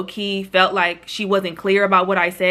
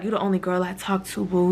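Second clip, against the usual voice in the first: mock-flirty, much softer; flirty reading; 3 semitones lower, 5 dB quieter than usual. The friend hears it as flirting, softly flirty. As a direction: softly coo it like a sweetheart. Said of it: "I feel like she took that as".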